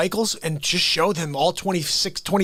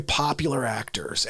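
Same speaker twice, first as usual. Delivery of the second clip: whispered aside; 4 semitones lower, 5 dB quieter than usual. Real, not acted.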